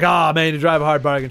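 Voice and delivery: lightly voiced southern storekeeper giving in; a touch of southern accent. Storekeeper conceding to a haggling customer, mild southern accent. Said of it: "they all have a southern accent".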